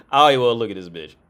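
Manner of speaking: whispered fast through a laugh; giggling fast whisper. Real, not acted. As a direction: laugh it out under your breath, quickly. Laughing at her OnlyFans.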